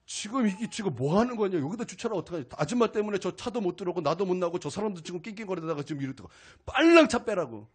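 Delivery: mock scolding, rising to a shout at the end; retold angry outburst. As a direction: replay the rant at the parking lady. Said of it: "분노가 팍 표출되면서".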